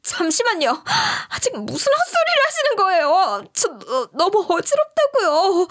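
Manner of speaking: retold dizzy outburst; desperate yell. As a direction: shout back with the last of her strength. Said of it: "고함을 치니까".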